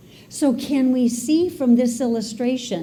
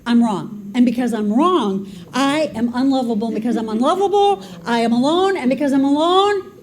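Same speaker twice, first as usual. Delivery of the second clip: inner critic spiraling; 2 semitones higher than usual. Acted. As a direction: let the negative self-talk snowball and press harder. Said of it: "how vicious our storyteller can be".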